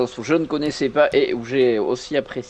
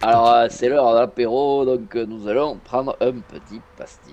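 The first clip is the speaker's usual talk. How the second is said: put-on southern French accent. Host opening the apéro in a hammed-up southern French accent. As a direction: play up a Marseille-style southern French accent. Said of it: "Tu commences déjà les imitations".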